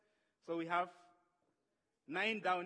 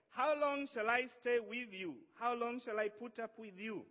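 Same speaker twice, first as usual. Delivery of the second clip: raised voice, exasperated rebuke; infuriated; 3 semitones higher, 5 dB louder than usual. Acted. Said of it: "he was infuriated".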